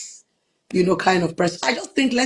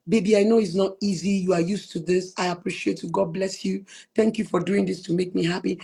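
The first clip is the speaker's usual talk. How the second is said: soft tender thanks; 2 semitones lower, 6 dB quieter than usual. Retold or imitated. Voices herself thanking husband.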